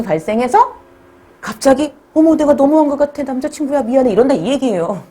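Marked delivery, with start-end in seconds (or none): 2.1-4.1 put-on sorry girlfriend. Girlfriend realizes and apologizes.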